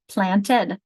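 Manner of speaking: Planted spoken as plan-tid; Planted with its two syllables clear. Shown as a demonstration. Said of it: "an example of a two-syllable word".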